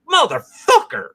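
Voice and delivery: high yelled curse after the punch; pained yell. Pretend. Vlogger imagines breaking his hand on a jaw, high pained yell.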